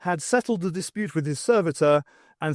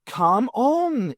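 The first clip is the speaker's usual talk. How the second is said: higher, louder urging call; urgent cry; 10 semitones higher, 4 dB louder than usual. A narrator's reading. Stokes urging Epstein and Farouk to flee, urgent cry. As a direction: call them to hurry. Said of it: "he cried".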